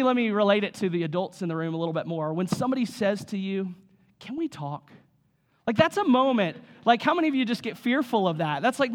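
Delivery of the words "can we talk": low, hushed ask; ominous request. Acted. Someone asks an adult for a dreaded talk, low and ominous. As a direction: drop it low and soft, with weight.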